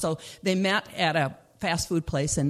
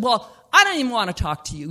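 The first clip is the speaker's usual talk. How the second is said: angry refusal; 3 semitones higher, 6 dB louder, faster than usual. Acted. Mindy refusing angrily.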